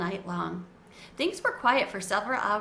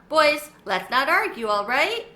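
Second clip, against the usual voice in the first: louder, higher mum's voice; calm the boys down firmly; mother's gentle scolding; 4 semitones higher, 6 dB louder than usual. A narrator's reading. Mother stepping in between arguing sons, firm.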